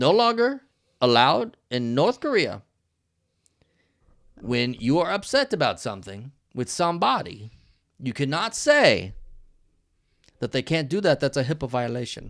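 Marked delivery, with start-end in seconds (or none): 0.0-11.2 put-on North Korean accented speech. Joking about rules in North Korea, doing a Kim Jong Un impression. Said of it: "And this is my Kim Jong Un".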